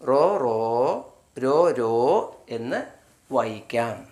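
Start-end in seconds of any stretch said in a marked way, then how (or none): 0.1-1.2 റോ, റോ spoken slowly and separately; teacher drawing out റോ, റോ; slow sound demo. Shown as a demonstration. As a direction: repeat റോ, റോ slowly for learners. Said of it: "R O ആണ് വരുന്നതെങ്കിൽ".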